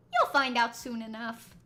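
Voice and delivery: lightly put-on cryptic character; hint at it in a slightly forceful voice; Zack. Game character dodging a question, lightly put-on voice. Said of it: "I should do my Zack voice".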